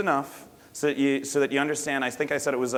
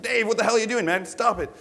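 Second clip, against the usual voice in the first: high-pitched exasperated telling-off; acted scolding; 9 semitones higher than usual. Bar local grabs drunk buddy to stop fight, acted scolding. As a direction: pull a buddy into line, hammed up.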